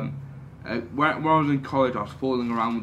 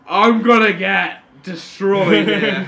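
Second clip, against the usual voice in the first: mock terrified; 6 semitones higher, 8 dB louder, much slower than usual. Retelling fear in strip club.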